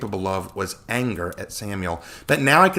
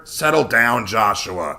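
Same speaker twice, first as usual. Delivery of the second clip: grumbling; 5 dB louder, slower than usual. Acted. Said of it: "Connor grumbled".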